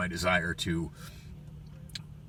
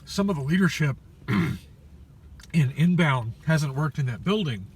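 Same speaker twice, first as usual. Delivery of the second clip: louder, throat clearing mid-phrase; choking; 7 semitones higher, 8 dB louder than usual. Real, not acted. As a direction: push words past food in throat. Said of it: "taquito in my voice box".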